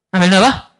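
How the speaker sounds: puzzled question. Retold or imitated. Puzzled mother asks about knife.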